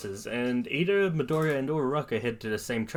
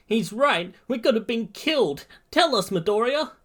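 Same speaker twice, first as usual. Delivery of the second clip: put-on much higher, agitated boy's voice; alarmed classmate; 11 semitones higher than usual. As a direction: plead for answers in a high voice. Alarmed classmate Mineta steps up.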